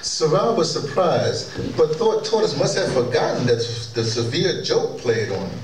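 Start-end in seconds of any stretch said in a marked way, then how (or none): none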